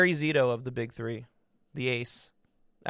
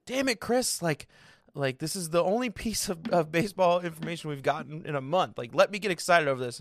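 higher-pitched mock protest; imitated exasperation; 4 semitones higher than usual. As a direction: plead like a friend whose fun was spoiled. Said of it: "And Julio was like".

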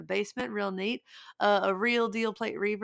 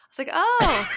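laughing; 8 semitones higher, 8 dB louder than usual. Real, not acted. Laughing at politics joke.

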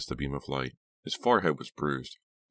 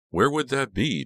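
high, loud, astonished question; swooping, surprised outburst; exclaiming; 10 semitones higher, 7 dB louder than usual. A narrator's reading. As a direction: exclaim in disbelief, pitch leaping up. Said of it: "Dina exclaimed".

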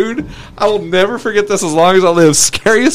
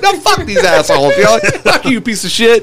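higher-pitched, hammed-up cursing; retold angry retort; 5 semitones higher than usual. Hothead egging on his friends against the other car, retold angry retort. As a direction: hurl insults in a raised pitch. Retold shouting match between cars.

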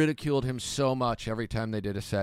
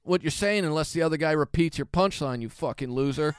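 higher, louder mocking retort; cocky comeback; 6 semitones higher, 3 dB louder than usual. Comic replaying his comeback to Joey, higher and louder. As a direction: twist the knife.

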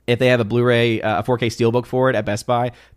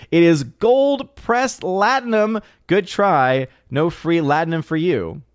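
mock correction; 6 semitones higher, slower than usual. Reading viewer's correction in voice.

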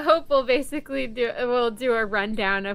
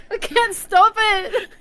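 put-on Scottish accent; 11 semitones higher, 9 dB louder than usual.

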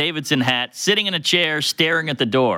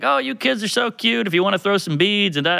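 lightly voiced motherly woman, pitched up; maternal; 6 semitones higher than usual. Older woman cooing over the kids, lightly maternal. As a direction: imitate a doting mom, higher at the start. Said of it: "she's being very maternal".

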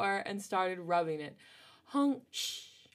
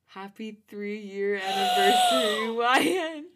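broken voice; 3 semitones higher, 8 dB louder than usual. Acted. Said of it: "his voice broken".

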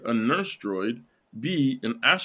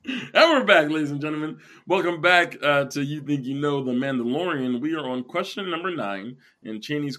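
game show host; 3 semitones higher than usual. Acted. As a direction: pump up the audience like a host.

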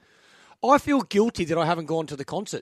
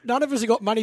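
faster, laughing through it; laughing repeat; 4 semitones higher, 3 dB louder, faster than usual. Real, not acted. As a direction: laugh it out again, quicker. Rueful line, repeated laughing.

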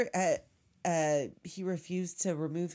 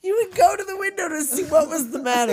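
higher, louder storybook recital; dramatic poem recital; 8 semitones higher, 9 dB louder, faster than usual. Acted.

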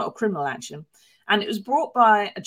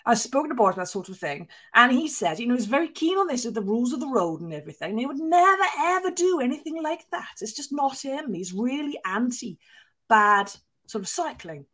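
hammed-up Welsh spin doctor accent; imitating a Welsh spin doctor, Welsh accent a bit off; mock Welsh accent; 4 semitones higher than usual. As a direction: put on a wobbly Welsh accent and keep going. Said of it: "This is my Welsh accent".

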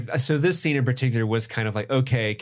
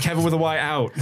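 The Rock; 2 semitones higher, faster than usual. Acted. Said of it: "He starts talking like The Rock from W W E".

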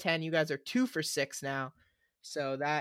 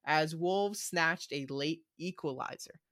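put-on slipping into British accent; slower than usual. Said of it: "I turned into a British accent".

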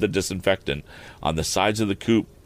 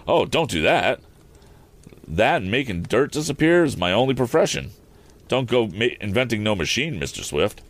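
higher-voiced folksy worker objecting; protesting handyman; 4 semitones higher than usual. Handyman begging the young inventor not to automate, protesting. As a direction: plead lightly for your livelihood.

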